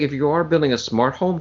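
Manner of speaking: normal talking voice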